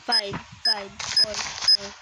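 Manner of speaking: rushed, rising panic countdown; counting down in a frantic rush; panicking gamer. Real, not acted. Frantic countdown before dying.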